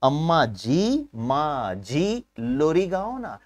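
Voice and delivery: very slow, drawn-out pleading for a lullaby; sweet child pleading. Pretend. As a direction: stretch each word like a child coaxing mother. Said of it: "अगर आप उसको बोलेंगे ना". (बहुत धीमे, खींचकर मनाता बच्चा)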